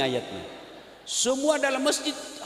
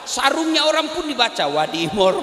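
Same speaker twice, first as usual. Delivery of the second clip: louder comic punchline; 6 dB louder than usual. Real, not acted. Preacher joking that even sarong labels get read, loud punchline. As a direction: land the brand name with a loud comic punch.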